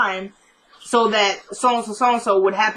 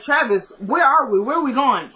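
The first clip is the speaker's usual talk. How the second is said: raised-pitch imitation of an uneasy passenger; mock worried questioning; 4 semitones higher than usual. Retelling a boy questioning his silent driver, mock worried questioning. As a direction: lift the voice, lightly acting out anxious questions.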